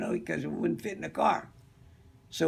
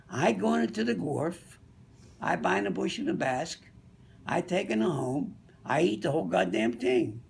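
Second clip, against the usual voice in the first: put-on Italian accent. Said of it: "Tony was a little Italian guy".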